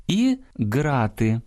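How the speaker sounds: plain stop g in ґрати; ґрати з твердим ґ. Shown as a demonstration. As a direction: say ґрати with a hard g. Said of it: "завдяки саме цьому звукові розрізняємо".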